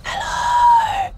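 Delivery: very high, squeaky drawn-out hello; demonstrated tiny whispering. Shown as a demonstration. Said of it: "I was, like, whispering like this".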